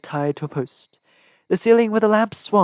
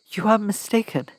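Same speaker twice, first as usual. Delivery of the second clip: shaky voice; 7 semitones higher than usual. A narrator's reading. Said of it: "but my voice shook".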